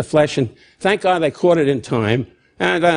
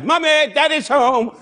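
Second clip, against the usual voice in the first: mock English voice; 9 semitones higher, slower than usual. Mocking English comedians.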